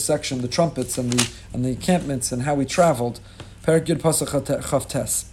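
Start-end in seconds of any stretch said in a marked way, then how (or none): 3.6-5.3 "Perek Yud Pasuk Chaf Tes" said slowly, each word spaced out; slow citation. Shown as a demonstration. Rabbi repeating the verse number for the class, slow and deliberate.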